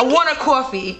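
attempted New York "coffee"; New York accent. Second go for a friend, attempted New York accent. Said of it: "You're trying to do New York".

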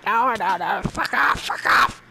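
whispered, no voice, urgent; whispered cursing. Real, not acted. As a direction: whisper the curse at the monster. Cursing at nearby mob.

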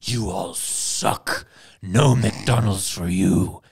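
slow, deep corporate put-down. Retold or imitated. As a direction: drag it out like a smug brand. McDonald's voiced telling off Russians.

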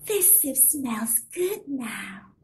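put-on slow, savouring old lady voice; an old woman savouring the smell; sweet old lady.

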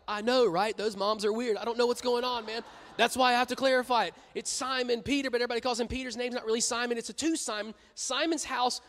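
God as a laid-back buddy, lightly voiced; casual God voice. God voiced casually, high and lively.

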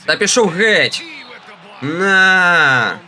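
swatting the ball away with a yell; excited shout. Real, not acted. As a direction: shout the rejection at the shooter. Blocking shot in game.

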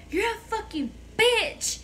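high, drawn-out mock outburst; retold angry insult. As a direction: hurl it like a bratty teen, imitated. Retold insult hurled at mother.

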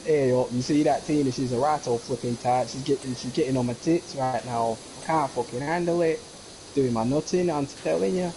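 lightly put-on Manchester accent; teasing Mancunian imitation; mock Mancunian accent. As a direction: rant like a Mancunian, half in jest. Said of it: "taking the mickey out of their accent".

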